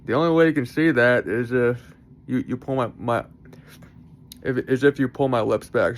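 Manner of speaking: slurpy speech around a mouth guard. Real, not acted. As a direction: talk past a drooly mouth guard. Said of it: "drooling, I'm, like, slurping up my spit".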